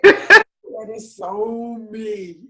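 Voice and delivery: slow, drawn-out words breaking into laughter; loud, amused self-recognition; cracking up. Real, not acted. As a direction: say it through a big laugh. Cracking up at herself.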